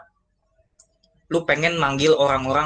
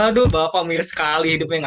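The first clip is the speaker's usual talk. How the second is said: laughing at sad news; 3 semitones higher, 3 dB louder than usual. Shown as a demonstration. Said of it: "sedih tiba-tiba ketawa".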